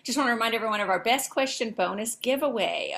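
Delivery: quick, hurried false start; rushed first take. Shown as a demonstration. Host's flubbed first try, rushed. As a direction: rattle it off too fast. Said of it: "starting over".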